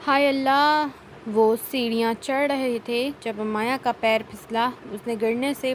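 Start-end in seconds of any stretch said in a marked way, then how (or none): 0.1-0.9 wife slipping on stairs, startled outcry; startled cry. Acted. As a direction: yelp as her foot slips. She slips on the stairs.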